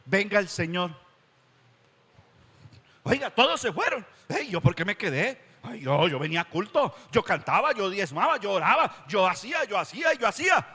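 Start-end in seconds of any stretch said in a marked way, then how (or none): 3.0-10.7 higher, indignant listing; protesting churchgoer. Retold or imitated. Preacher voices a sinner left behind at the Lord's return, indignant. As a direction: plead your good deeds in protest.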